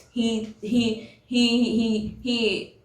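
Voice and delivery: talking through a mouthful; words around a bite of food; mouth full. Real, not acted. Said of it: "my mouth is full now".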